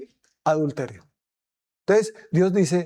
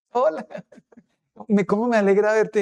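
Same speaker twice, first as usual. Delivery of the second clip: 1 fake cheerful greeting; 4 semitones higher than usual. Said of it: "me toca ser hipócrita".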